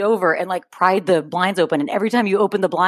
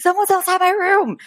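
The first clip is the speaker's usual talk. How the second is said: mock scared whisper-shout; 11 semitones higher, 3 dB louder than usual. Retelling scared sister's words.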